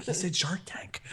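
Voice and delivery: hushed, whispered relay; mock scandalized whisper. Poker patron telling her husband, mock scandalized whisper. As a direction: whisper it as imitated shocked gossip.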